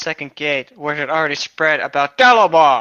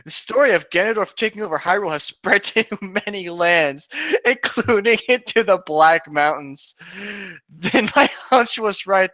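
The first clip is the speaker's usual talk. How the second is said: griffin voice; 5 semitones higher, 3 dB louder than usual. Acted. Griffin Dalamar speaks, laughing.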